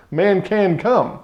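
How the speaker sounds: "Man can come" said slowly, each word weighted; measured, slow stress on "can come"; slow emphasis. Shown as a demonstration. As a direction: lay out the three words deliberately. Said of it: "the main part of the sentence is three words".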